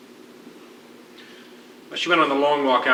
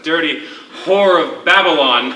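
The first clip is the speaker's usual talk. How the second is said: laughing mock insult; 3 semitones higher, 6 dB louder than usual. Mock insult trading game.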